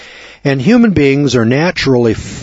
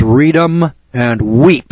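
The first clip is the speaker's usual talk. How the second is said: each word stretched long and slow; drawn-out card-room saying; much slower than usual. Shown as a demonstration. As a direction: lay it out slowly, word by word. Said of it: "That's what they tell you in the card room".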